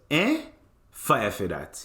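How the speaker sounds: mock Jamaican barista, pitch jumping up on eh; lightly imitated Jamaican reply; Jamaican accent. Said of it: "And he goes".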